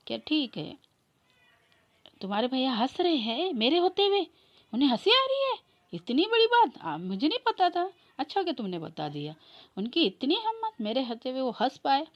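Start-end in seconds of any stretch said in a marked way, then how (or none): 2.2-12.1 high, loud indignant outburst; outraged. Acted. Bhabhi to devar, outraged her husband dares laugh, high loud indignation. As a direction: shriek it in mock outrage, pitched up.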